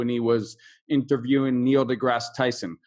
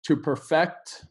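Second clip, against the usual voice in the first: slow verb demo; slower than usual. Shown as a demonstration. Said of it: "I wanna stress two things".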